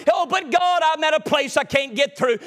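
starts high, pleading to God; pleading believer. Acted.

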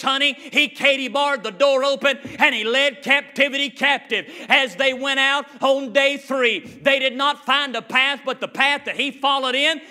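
preaching at full force. Real, not acted. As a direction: build the sermon to a peak.

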